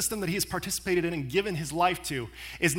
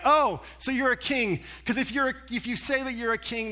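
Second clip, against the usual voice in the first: acted relief, pitched up; relieved; 4 semitones higher than usual. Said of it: "breathes a sigh of relief".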